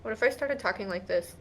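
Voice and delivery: talking through clenched teeth. Pretend. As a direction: speak with teeth clamped shut. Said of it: "are your teeth clenched together".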